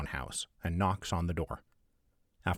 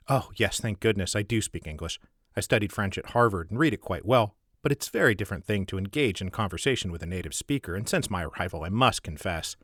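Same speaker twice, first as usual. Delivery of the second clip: relieved. Acted. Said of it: "replies with evident relief".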